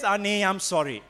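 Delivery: mock pity. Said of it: "Pity says".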